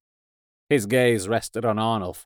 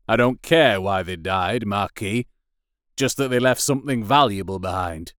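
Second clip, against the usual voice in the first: lower, dismissive lordly voice; cold lord; 3 semitones lower than usual. Acted. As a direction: brush her off coldly. Lord dismisses his second.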